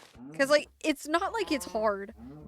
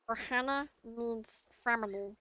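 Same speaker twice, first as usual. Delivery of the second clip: badly faked cartoon alien; Stitch; 4 dB quieter than usual. Shown as a demonstration. Streamer knowingly doing a poor impression, Stitch voice. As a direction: attempt a little creature's catchphrase voice. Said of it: "I thought I could do a really good Stitch one".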